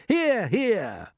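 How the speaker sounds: cheering agreement. Acted. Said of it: "they all shouted".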